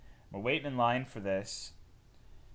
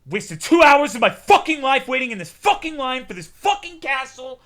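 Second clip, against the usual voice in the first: shouted rant, much higher and louder; angry woman ranting; 12 semitones higher, 12 dB louder than usual. Retold or imitated. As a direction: blow up like a furious line-waiter.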